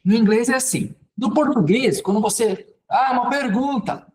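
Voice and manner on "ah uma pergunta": "ah, uma pergunta" raised like a question; question intonation. Shown as a demonstration. Teacher showing how Portuguese marks questions, "ah, uma pergunta" in question intonation. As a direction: lift "ah, uma pergunta" higher, as if asking. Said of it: "só mudar a entonação".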